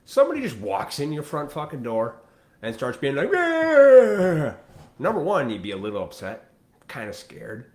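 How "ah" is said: a sudden high shouted "Ah!", far louder; mock intruder yell. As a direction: burst in with a wild yell. Intruder bursting in yelling.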